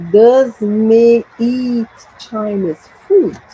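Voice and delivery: slow, stretched question lifting on "food"; question intonation demo. Shown as a demonstration. Teacher marking the intonation, slow with a rise on "food". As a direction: draw it out and raise "food" at the end. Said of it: "the intonation".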